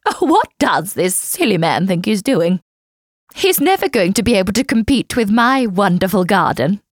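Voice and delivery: snooty neighbour voice. Acted. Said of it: "Nosy Neighbour exclaimed".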